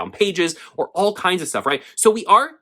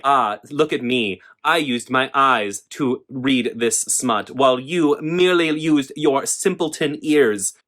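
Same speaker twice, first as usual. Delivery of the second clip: slow, lightly voiced smug reader; a hint of a haughty snob, drawn out; mock snob; slower than usual. Mocking a book snob who scorns audiobook listeners, slow and smug.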